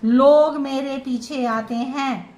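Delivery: slow, drawn-out boast, lightly acted; a touch of self-important pride, taken slowly; mock arrogance. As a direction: stretch it out as a mildly haughty brag. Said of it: "घमंड है, भाव है".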